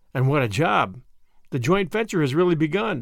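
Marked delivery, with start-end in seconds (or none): none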